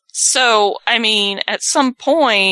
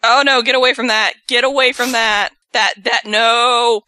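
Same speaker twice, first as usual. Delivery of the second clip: secondhand embarrassment; 3 semitones higher than usual. Real, not acted. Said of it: "This is so awkward".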